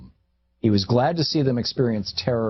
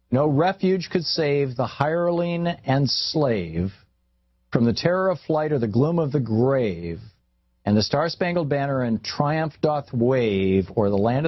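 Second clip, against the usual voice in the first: slow solemn recitation; 4 semitones higher than usual. Retold or imitated. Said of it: "It goes like this".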